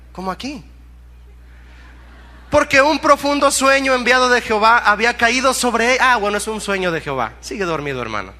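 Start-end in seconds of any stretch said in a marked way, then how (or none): 2.5-6.0 loud, raised preacher's reading; lectura bíblica predicada. Acted. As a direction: proclaim the verse loudly, voice held high. (lectura bíblica proclamada en voz alta)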